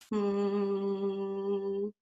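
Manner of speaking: a plain even hum; regular hum. Shown as a demonstration. Coach demonstrating a regular steady hum. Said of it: "or a regular hum".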